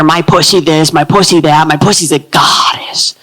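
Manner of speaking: low, breathy sultry boast ending in a whisper; low seductive mock brag; sultry flaunting. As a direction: purr it like a goddess. Women flaunting sexuality.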